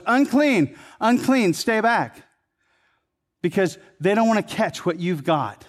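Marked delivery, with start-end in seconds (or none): 0.0-2.2 high, loud call of unclean; a leper calling out a warning; hollering warning. Retold or imitated. Leper calls to villagers, high mock holler. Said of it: "holler out in a loud voice".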